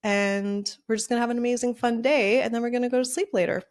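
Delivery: cheerful self-talk. Retold or imitated. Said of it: "I trick my brain and I'm just like".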